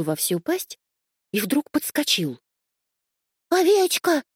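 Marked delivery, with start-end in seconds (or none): 3.5-4.2 high, loud frightened yell; kitten's yell. A narrator's reading. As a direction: cry out to warn the sheep. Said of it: "завопил он". (громкий высокий вопль котёнка)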